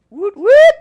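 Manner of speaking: high loud camel woot; camel grumble. Retold or imitated. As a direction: do the camel's call. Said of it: "a camel goes like this".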